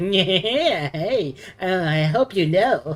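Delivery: very loud, very slow voice, "yeah" drawn out. Showing the others the voice for the comic artist character: comic artist character voice. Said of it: "able to do the freaking comic artist's voice".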